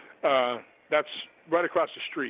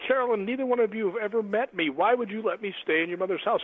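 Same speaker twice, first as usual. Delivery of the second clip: higher-pitched, astonished questioning; acted disbelief; 7 semitones higher than usual. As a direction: question the offer in retold amazement. Retold disbelief at stranger's offer.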